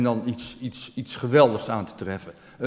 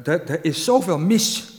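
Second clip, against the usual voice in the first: emotional, slow; 3 semitones higher, 3 dB louder, slower than usual. Real, not acted. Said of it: "daar word ik altijd emotioneel van".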